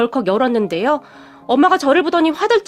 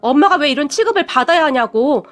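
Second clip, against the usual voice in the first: angry outburst; 2 semitones higher than usual. Retold or imitated. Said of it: "다시 화를 내버렸어요".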